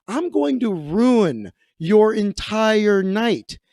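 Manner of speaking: acted-out threatening tirade; retold angry threat. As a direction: re-enact laying into the host, emphatic. Acting out own threats to host.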